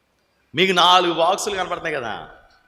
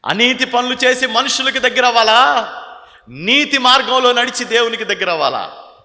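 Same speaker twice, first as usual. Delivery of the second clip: higher and louder, pressing the question; loud preaching; 9 semitones higher, 8 dB louder than usual. Acted. Preacher challenging the congregation, loud and high. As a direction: thunder the choice at them.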